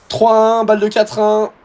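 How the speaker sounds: high and loud, very slow on "dans le mal"; overplayed distress at the score; dramatic despair. Real, not acted. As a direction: stretch out the agony. Struggling in the match.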